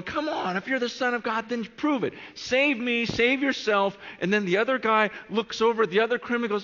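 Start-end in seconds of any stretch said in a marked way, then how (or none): 0.0-4.0 much higher-pitched jeer; mocking taunt. One criminal on the cross to Jesus, mocking. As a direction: egg him on with raised, goading voice. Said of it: "One's mocking him, going".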